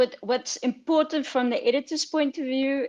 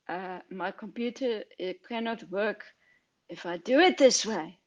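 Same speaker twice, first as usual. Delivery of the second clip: put-on a faint, half-hearted Swedish accent; bad Swedish accent; 3 semitones lower, 3 dB quieter than usual. Editor mimicking his Swedish client in a bad Swedish accent. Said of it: "I do that when I speak to the Swedes".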